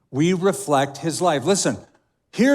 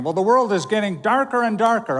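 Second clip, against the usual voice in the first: higher, quicker mock complaint; mock complaining; 4 semitones higher, faster than usual. Preacher voicing believers' grumbles about the world, mock complaining. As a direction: imitate a fretful complainer, pitched up. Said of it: "sometimes we complain".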